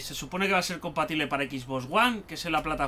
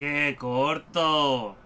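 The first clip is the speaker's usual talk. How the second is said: disappointed; 2 semitones lower, much slower than usual. Real, not acted. Complains demo is short.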